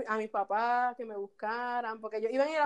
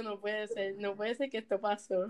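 softer disbelieving mutter; stunned inner voice; 3 semitones lower, 5 dB quieter than usual. Retold or imitated. Actress frozen onstage thinking to herself, quiet disbelief. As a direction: say it low to yourself in disbelief.

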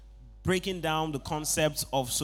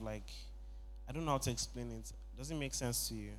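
timid confession; 5 semitones lower, 8 dB quieter than usual. Retold or imitated. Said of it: "I was talking like I was giving a word of knowledge".

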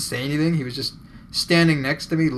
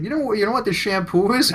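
a higher, slightly louder put-on customer voice; mock customer voice; 8 semitones higher, 4 dB louder than usual. Customer asks the clerk for shampoo, lightly voiced. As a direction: play the shopper asking, lightly voiced.

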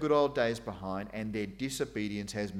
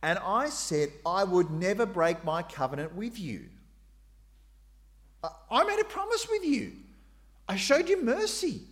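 voice of God; 7 semitones higher, 5 dB louder than usual. Acted. Preacher voicing God pleading.

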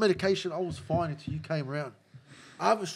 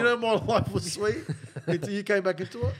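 real laughter breaking into the complaint; laughing complaint. Real, not acted. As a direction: blame him through a laugh. Laughs while blaming friend.

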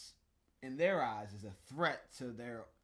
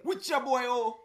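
loud, high hype man; hype intro shout; 12 semitones higher, 14 dB louder than usual. Acted. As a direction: announce yourself like a hype man.

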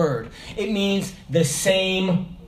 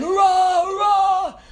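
shouted hoorah; 10 semitones higher, slower than usual. Retold or imitated. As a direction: answer the sergeant in unison. The squad shouting together.

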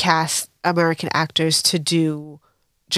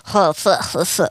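mock lockjaw mumble noises; huffed syllables through a locked jaw; talking through teeth. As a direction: imitate someone talking through clenched teeth. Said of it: "talk through her teeth".

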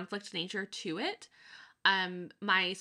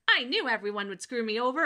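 higher, quicker I-told-you-so; mock vindication; 4 semitones higher, 4 dB louder, faster than usual. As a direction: play someone relishing being proved right. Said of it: "the satisfaction of".

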